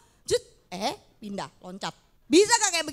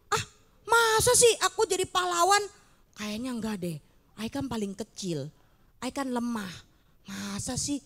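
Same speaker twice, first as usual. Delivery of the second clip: doubting Gideon; 3 semitones lower than usual. Acted. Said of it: "kata dia".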